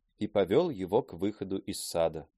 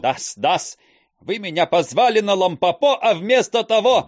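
higher and louder complaint; loud aggrieved protest; 9 semitones higher, 7 dB louder than usual. Acted. Teacher complaining at the door, loud. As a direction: protest while being pushed.

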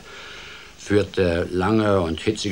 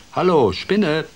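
polite greeting; 7 semitones higher, 7 dB louder than usual. Acted. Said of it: "sagte höflich".

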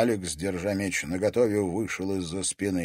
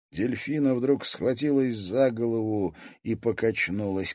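ordinary delivery, nothing marked

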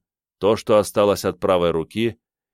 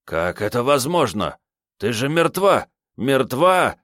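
shocked disbelief climbing to a higher pitch; stunned babbling; 5 semitones higher than usual. Acted. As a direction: babble in horror at seeing the dead. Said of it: "бормотал он".

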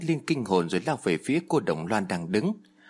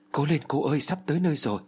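encouraging; 4 semitones higher, faster than usual. Acted. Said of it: "Tôi quay lại động viên cô".

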